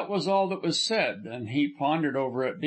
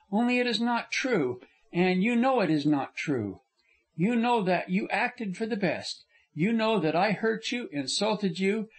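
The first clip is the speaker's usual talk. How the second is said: a higher, earnest young woman's voice, only lightly put on; lightly voiced young woman; 4 semitones higher than usual. Frona insisting to Corliss she behaved badly, lightly raised young woman's voice. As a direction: lift the voice a little for the heroine, remorseful and insistent.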